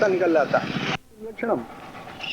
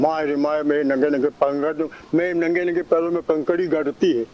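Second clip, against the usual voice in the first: another way of saying; 3 semitones lower than usual. Shown as a demonstration. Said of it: "बोलने का ढंग".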